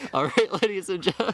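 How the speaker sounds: loud, high echo of a British announcer; mock British accent. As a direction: parrot the British announcement, hammed up. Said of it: "drop these dumbass accents now".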